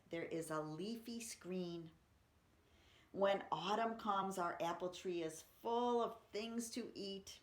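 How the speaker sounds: put-on lively read-aloud for kids; expressive children's poem reading.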